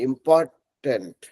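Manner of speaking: इंपॉर्टेंट held slowly to the final t; इंपॉर्टेंट said slowly with every sound; full t ending. Shown as a demonstration. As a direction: stretch इंपॉर्टेंट and stop cleanly on t. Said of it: "वहां तक जाके रुकिए".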